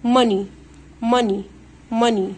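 ماني said "MUH-nee"; falling, separate "MA-nee"; silent O. Shown as a demonstration. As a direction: repeat ماني with a short vowel for pupils. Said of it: "الاو لا تنطق".

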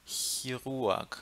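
"Chirurg" opening on the airy ich hiss; soft initial Ch. Shown as a demonstration. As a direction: model "Chirurg" with soft German ch first. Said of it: "mesma coisa". ("Chirurg" com Ch suave, igual Ich)

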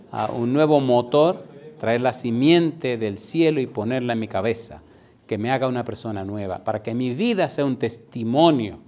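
loud, impassioned pleading to God; fervent prayer. Shown as a demonstration. Preacher voicing a sinner's surrender to Jesus, fervent. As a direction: pray it out with full force. Model prayer in altar call.

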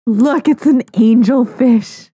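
loud, drawn-out excited announcement; real excited exclamation. Real, not acted. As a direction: announce the catch loudly and slowly, thrilled. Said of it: "I'm so excited".

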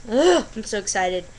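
loud groan into excited gush; real excitement. Real, not acted. Vlogger who should be going to bed, bursting with excitement. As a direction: burst out, too excited to hold it.

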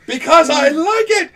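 put-on loud, slow, childish royal retort; petulant king shout. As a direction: bellow it like a spoiled king. Playing the king answering.

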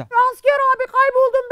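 put-on high child's cry for help; child calling out. Lost boy calls to the soldiers across the road, high and pleading.

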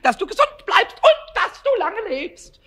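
crowed greeting. Acted. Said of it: "krähte er auch gleich los".

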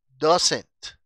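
"doesn't" fuerte, con la T final bien marcada; T final pronunciada. Shown as a demonstration. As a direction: modela "doesn't" para la clase, rematando la T. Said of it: "estoy pronunciando la T al final". ("doesn't" enfático, con T final nítida)

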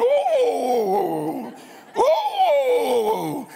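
high howling dog cries; dog hollering. Retold or imitated. Preacher imitating the hollering dog, high howls. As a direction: howl like a hurting hound. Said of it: "his dog was just hollering".

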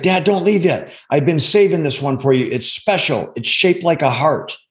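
a hint of an eager kid offering a gift; voicing his young son. Father retelling his son begging him not to leave, lightly pleading child voice. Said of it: "He's like".

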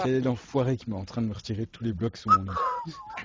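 indigné en riant à moitié; s'exclamer, scandalisé pour rire; outré. Real, not acted. Bloc retiré sous son lit. (outré)

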